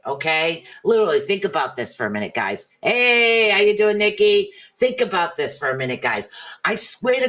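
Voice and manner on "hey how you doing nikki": bright greeting. Real, not acted. Greeting a viewer by name.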